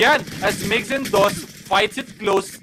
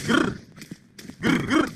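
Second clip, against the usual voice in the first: playful growl; 6 semitones higher than usual. Pretend. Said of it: "Ice in my veins".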